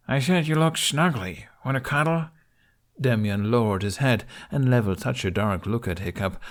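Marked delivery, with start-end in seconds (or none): 0.1-2.3 teasing, higher sing-song; mocking high voice. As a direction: taunt him sweetly. Boy mocks Demyan.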